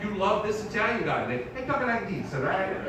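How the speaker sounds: Italian-American Jesus impression; casual mock Italian delivery; full-on Italian accent. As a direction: talk like an Italian guy from South Philly. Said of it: "Jesus would be full-on Italian".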